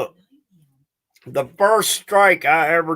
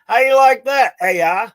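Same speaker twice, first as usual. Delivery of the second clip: taunting; 5 semitones higher than usual. Real, not acted.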